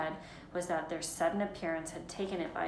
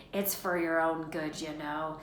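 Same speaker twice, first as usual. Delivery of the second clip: saintly voice. Acted. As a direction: sound falsely saintly. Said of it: "in a saintly voice".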